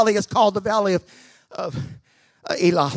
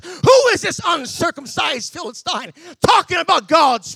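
indignant shout; 4 semitones higher than usual. Acted. David's indignant outburst quoted.

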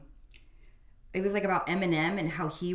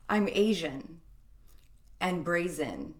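slow, stiff spoken word reading; robotic poem; slower than usual. Shown as a demonstration. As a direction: read it like a deadpan robot poet. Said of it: "I read that like a, a robotic poem".

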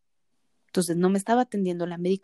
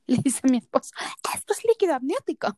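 laughing whisper; 7 semitones higher, 3 dB louder, faster than usual. Real, not acted. Laughing while telling husband's words.

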